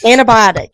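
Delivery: ANTIBIOTIC with a North Carolina flattened I; ANTIBIOTIC, first half like the name Anna; own Carolina pronunciation. Shown as a demonstration. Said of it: "that's how I say it".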